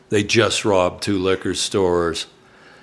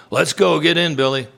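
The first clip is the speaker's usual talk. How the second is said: urgent call; 7 semitones higher than usual. Retold or imitated. Brother urging Billy to hurry.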